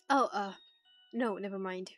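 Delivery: ordinary delivery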